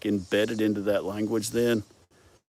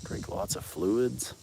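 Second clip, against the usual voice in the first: "Drink lots of fluids" said slow and softer; testing how it sounds; 6 dB quieter, much slower than usual. Shown as a demonstration. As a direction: draw out "fluids" slowly, pitch lifting, testing the words. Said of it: "That sounded weird".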